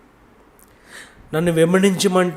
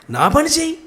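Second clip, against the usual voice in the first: high, loud voice of God giving the order; God's command; 11 semitones higher, 3 dB louder than usual. Acted. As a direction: proclaim it like God's own command. (దేవుని ఆజ్ఞ స్వరం)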